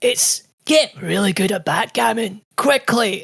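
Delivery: high, strained Scottish dad with a thick brogue; Scottish old man voice. Retold or imitated. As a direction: play a pleading old Scottish father. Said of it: "you upped your accent for Tallarico's dad".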